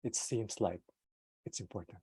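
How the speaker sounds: slow, fading emphasis. Shown as a demonstration. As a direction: drag it out to sound important. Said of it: "when I slow down".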